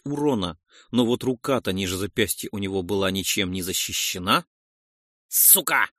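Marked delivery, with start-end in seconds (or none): 5.3-5.9 short, contained yelp of a curse; crying out. A narrator's reading. Roldon is hit by acid, crying out a curse. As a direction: swear as if just burnt, without much volume. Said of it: "вскрикнул он".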